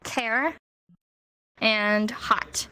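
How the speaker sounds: whispered. Real, not acted. Student whispers answer.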